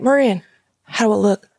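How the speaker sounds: lightly imitated Louisiana accent; proud stepdad with a Louisiana twang. Stepdad showing mom his hunting gear, Louisiana accent. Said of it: "he's from Louisiana".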